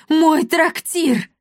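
despairing wail. A narrator's reading. The innkeeper sees his inn collapse, despairing wail. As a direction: wail over the ruined inn.

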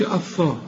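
"الثاء" with a thick, dark vowel; mistaken heavy th. Shown as a demonstration. Teacher warning against a mistake, heavy th. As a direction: make "الثاء" backed and heavy. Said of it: "ما تقولش".

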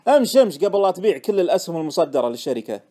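loud, hurrying command; exasperated urging. Acted. Friend dragging the trader out of the office, exasperated. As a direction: hustle him away, fed up.

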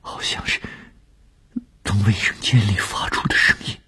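muffled voice, face in a pillow. Acted. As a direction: speak muffled and hushed into a pillow. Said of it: "闷声闷气地".

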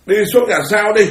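mild mock rebuke, rising high on the dismissal; retold scolding. Fifth Patriarch sends Huệ Năng away before the assembly, retold scolding. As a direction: act out a master shooing a disciple away. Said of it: "Tổ quở, tổ đuổi, phải không?".

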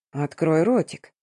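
low, slow purr; a lightly voiced predatory coo. Guy pressing the girl during the kiss, slow low purr. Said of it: "проурчал парень".

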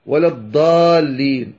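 الضالين with ض said as a D; faulty D sound opening الضالين; wrong Dad. Shown as a demonstration. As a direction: say الضالين mistakenly with a dal, long vowel held. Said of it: "لا، هذا خطأ".

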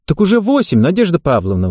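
urgent high exclamation; exclaiming. Acted. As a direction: exclaim it, pressing the point. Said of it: "воскликнула тренер".

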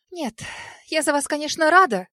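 a healer flaring at the news. A narrator's reading. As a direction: shoot up in irritation. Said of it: "взвилась Али".

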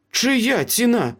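high, slow, deliberate demand; insistent repeated question. A narrator's reading. Meryl presses the silent Ace about the price, insistent. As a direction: press each word slowly for an answer. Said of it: "повторила Меріл".

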